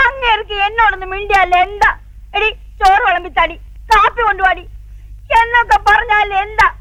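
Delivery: complaining through light tears; tearful complaint. Acted. Mother complains to her son, lightly tearful. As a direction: let a little crying into the words. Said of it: "അമ്മ കരയണ്ട".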